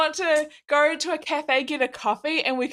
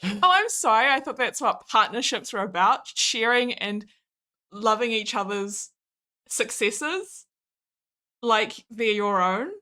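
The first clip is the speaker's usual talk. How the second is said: sarcastic; 2 semitones lower than usual. Real, not acted. Mock apology to partner.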